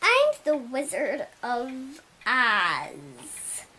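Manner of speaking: lightly hammed-up wizard. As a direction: intone it like a mighty wizard. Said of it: "he was like".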